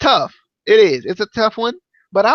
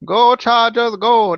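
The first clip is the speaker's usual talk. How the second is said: Arnold impression; 4 semitones higher, 3 dB louder, slower than usual. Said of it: "That's how he says it".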